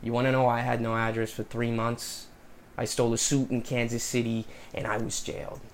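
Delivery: monologue in an attempted New York accent. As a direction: rehearse a speech as a New Yorker, lightly accented. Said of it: "start with the New York accent".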